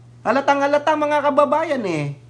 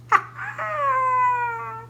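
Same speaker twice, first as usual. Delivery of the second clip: a high, squealing burst of laughter; high shrieking laugh; 4 dB quieter than usual. Real, not acted. Laughing at the claim. (tumitiling halakhak)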